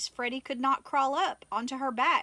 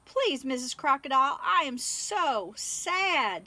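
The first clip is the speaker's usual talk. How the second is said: sad plea; 2 semitones higher than usual. Acted. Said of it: "she started to cry again".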